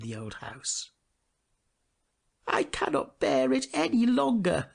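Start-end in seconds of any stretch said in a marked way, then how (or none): 2.5-4.7 pewter soldier. A narrator's reading. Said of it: "said the pewter soldier".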